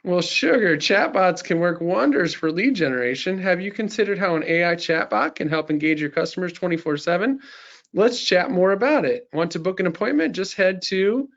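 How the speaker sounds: lightly voiced Southern belle; a hint of Southern charm for a customer; Southern belle accent. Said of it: "in a Southern Belle accent".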